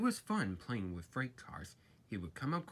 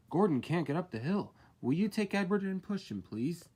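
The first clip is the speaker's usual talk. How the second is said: porter voice; 6 semitones higher, 6 dB louder than usual. A narrator's reading. Porter asks urgently.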